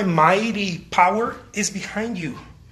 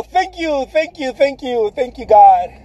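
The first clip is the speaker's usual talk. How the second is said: mock grateful; 5 semitones higher, 5 dB louder, slower than usual. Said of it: "we go".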